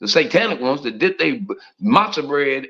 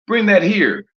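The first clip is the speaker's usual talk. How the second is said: a lightly crisp, louder proper English take on "Bring that here"; 7 semitones higher, 4 dB louder than usual. Retold or imitated. Preacher contrasting proper English with country talk, in a crisp, standard voice. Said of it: "people in, in speak proper English, they say".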